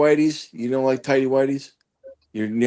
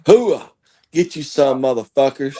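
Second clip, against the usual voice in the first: booming military war cry. Retold or imitated. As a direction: bark it like a fired-up Marine. Marine war cry, rolling into Baghdad.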